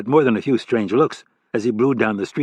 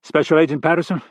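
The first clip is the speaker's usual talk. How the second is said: stern boss voice; 5 semitones higher than usual. Acted. Gruff boss voice on the phone.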